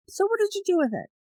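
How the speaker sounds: a hint of a mysterious voice. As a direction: ask it like an otherworldly guide. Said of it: "the voice says".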